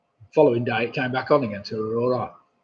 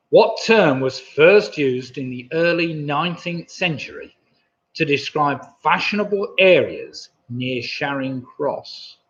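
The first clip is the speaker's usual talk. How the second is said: posh voice; 4 dB louder than usual. Shown as a demonstration. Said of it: "I lost my posh, posh voice".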